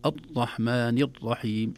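الرحمن with the r pressed hard and tense, slowly; over-hardened r. Shown as a demonstration. Teacher demonstrating the r said too tensely, slow. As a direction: clamp down on the r in الرحمن as the wrong way. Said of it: "يشد عليه".

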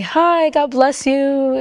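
feigned casual greeting. Retold or imitated. Teen slipping past grandma's guest with red eyes, feigned casual greeting. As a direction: toss out an innocent, stretched-out greeting.

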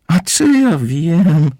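high, loud, drawn-out scoff; snorted retort. A narrator's reading. Barmaid moth brushes off the commissioner's question, snorting. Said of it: "prychnęła ćma barowa".

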